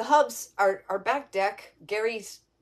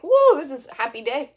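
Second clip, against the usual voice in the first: excited whoop; 5 semitones higher, 8 dB louder than usual. Retold or imitated. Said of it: "I was like".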